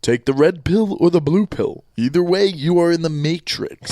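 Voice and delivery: a light take on Morpheus offering the pills; Morpheus impression. Host playing Morpheus to listeners, mock solemn. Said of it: "I am Morpheus".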